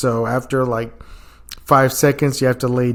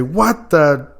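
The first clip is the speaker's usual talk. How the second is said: slow, much higher, louder outburst; drawn-out outrage; 9 semitones higher, 4 dB louder, much slower than usual. Retold or imitated. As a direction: stretch out the shocked curse. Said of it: "I just hear him say".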